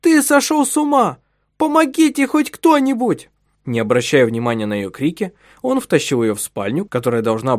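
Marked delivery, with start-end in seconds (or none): 0.0-3.3 loud, much higher panicked cries; the wife screams for help while being dragged, loud and high; screaming for help. Acted. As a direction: yell for anyone to come. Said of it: "кричала она".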